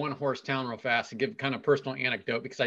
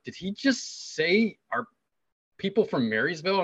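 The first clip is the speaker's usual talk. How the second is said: mock disbelief; 5 semitones higher than usual. Retold amazed reaction of two friends.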